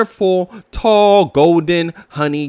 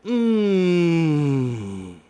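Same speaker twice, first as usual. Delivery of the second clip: appreciative sniff. Acted. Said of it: "breathing in their sweet scent".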